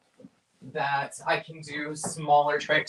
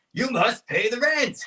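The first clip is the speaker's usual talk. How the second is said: villain voice; 8 semitones higher than usual. Acted. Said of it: "the classic".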